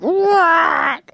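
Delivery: high squeaked shocked what. Retold or imitated. Stunned by the vet's answer, a high squeaky what. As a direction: yelp it in disbelief.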